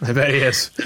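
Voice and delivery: whispered aside. Shown as a demonstration. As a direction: breathe it as a whisper. Repeats line in whisper.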